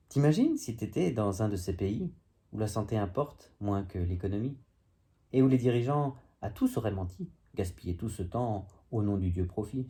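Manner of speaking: spoken-word poem in measured phrases; declaimed verse with lifted phrase ends; poem recitation. Acted. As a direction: recite a wry poem, line by line. Recites own comic poem.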